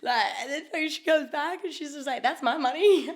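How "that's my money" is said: high, laughing imitation; mock her protest through a laugh; retold indignant claim. Retold missus claiming the winnings.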